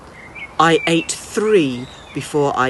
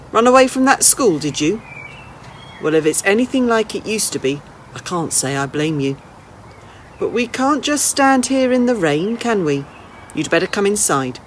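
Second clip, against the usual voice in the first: put-on an old lady teasing a runaway boy, then inviting him in; lightly voiced old lady; 3 semitones higher than usual.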